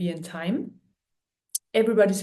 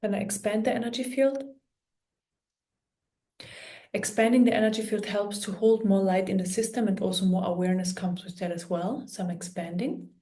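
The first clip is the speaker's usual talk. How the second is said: calm meditation guide with long pauses; guided meditation; 3 dB quieter than usual. Real, not acted. Healer guiding listeners through an energy clearing, calm guided meditation. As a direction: talk them gently through it, pausing often.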